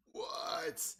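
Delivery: drawn-out, mock-stunned reaction; slow, exaggerated surprise; retold disbelief. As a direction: stretch it out in playful disbelief. Retold reaction to the plot twist.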